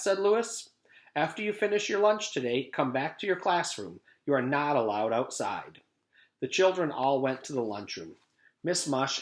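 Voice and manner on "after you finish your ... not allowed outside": lightly voiced teacher laying down the law; a hint of a stern yard teacher. Lewis voiced in story.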